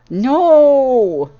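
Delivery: high, loud filly scream. A narrator's reading. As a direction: shriek it like a tantrum. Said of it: "her kicking and screaming".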